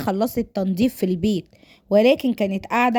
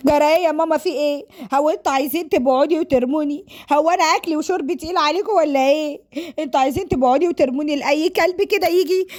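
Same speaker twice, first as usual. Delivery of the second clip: exasperated, pleading daughter, acted out; protesting daughter; 5 semitones higher than usual. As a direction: plead with your parents in mock desperation. Voices Sara protesting to parents.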